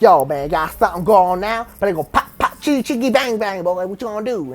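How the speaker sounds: playful hammed-up challenge; joking taunt. Joking at old middle-school bullies, mock swagger. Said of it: "So I kept doing it".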